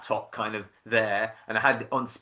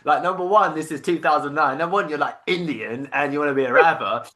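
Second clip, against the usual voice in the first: retold disbelief, louder and higher; incredulous parents; 4 semitones higher, 6 dB louder than usual. Parents to son who wants to rap, loudly incredulous. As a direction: imitate parents scolding a would-be rapper. Parents react to rapper plan.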